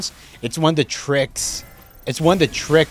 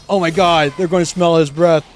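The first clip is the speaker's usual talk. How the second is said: high, loud worried inner voice; panicky inner voice; 6 semitones higher, 5 dB louder than usual. Retold or imitated. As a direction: panic about bad breath. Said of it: "overthinking it part of my brain that's like".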